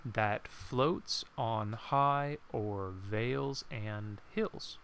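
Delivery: stretched out, each syllable laid down slow; slow counted reading. Shown as a demonstration. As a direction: read it slowly to count syllables. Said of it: "Let's count the next one".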